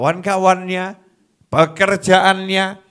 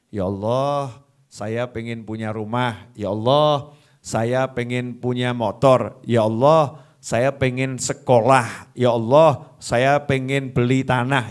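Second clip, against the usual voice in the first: low, slow humble asking; lower, slower pleading list of wishes; humble prayer list; 3 semitones lower than usual. Shown as a demonstration.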